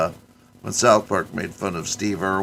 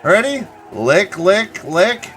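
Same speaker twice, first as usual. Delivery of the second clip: high, loud, slow wrestler shout; hammed-up wrestler bellow; 12 semitones higher, 10 dB louder, slower than usual. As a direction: boom it out like a cartoon wrestler. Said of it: "two grown men are gonna lick each other's heads".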